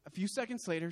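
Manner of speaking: pushing through the emotion; struggling to keep composure; fighting tears. Real, not acted. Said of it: "I'm gonna try to get through this story".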